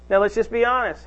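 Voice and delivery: ordinary talk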